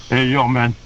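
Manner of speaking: lightly put-on Scarface accent; Razor Ramon. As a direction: imitate a cool wrestler with a Scarface accent. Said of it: "enough with the Scarface routine".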